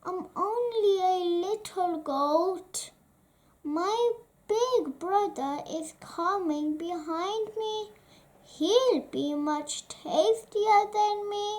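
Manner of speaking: a hint of a frightened kid goat; little goat voice. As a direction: speak small and pleading. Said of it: "cried Beanie".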